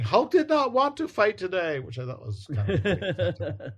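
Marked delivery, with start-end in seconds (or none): 0.0-1.8 high, loud Hulk shout; Hulk yelling. Retold or imitated. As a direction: roar it like an angry Hulk. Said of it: "Hulk is yelling".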